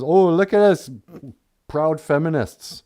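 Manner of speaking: high, loud mock boasting; mocking quote. Mocking proud feminists, hammed-up boast. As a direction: puff it up mockingly.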